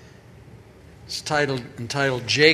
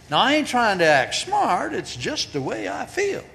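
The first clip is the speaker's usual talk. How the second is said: higher, earnest rancher asking questions; cowboy voice; 4 semitones higher than usual. Acted. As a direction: plead like a puzzled old cowboy. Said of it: "Jake said to Pete".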